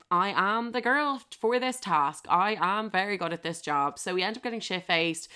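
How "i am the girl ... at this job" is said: mock proud boast. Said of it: "I was like".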